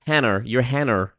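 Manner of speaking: "Hannah" said with an R on the end; English-style Hannah. Shown as a demonstration. Teasing an English viewer, "Hannah" said as "Hanner". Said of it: "with an R at the end".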